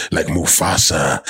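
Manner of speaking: deep, slow lion king voice; Mufasa impression. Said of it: "sounds like".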